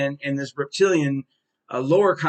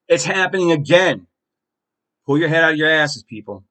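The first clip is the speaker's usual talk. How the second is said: angry rant; 5 dB louder than usual. Real, not acted. Angry rant at far left.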